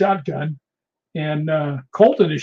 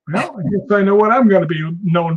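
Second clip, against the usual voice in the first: wry resignation; 3 semitones higher, 4 dB louder than usual. Retold or imitated. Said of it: "I'm just sitting there going".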